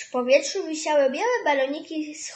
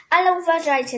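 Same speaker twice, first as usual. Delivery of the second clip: warning; 4 semitones higher, 8 dB louder than usual. Acted. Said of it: "ostrzegła Sonia".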